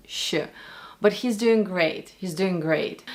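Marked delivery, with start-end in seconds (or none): 0.1-0.3 "sh" alone, as a Russian sound; isolated Russian sh. Shown as a demonstration. Coach repeating a very difficult sound, isolated Russian sh. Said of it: "it's a very difficult sound".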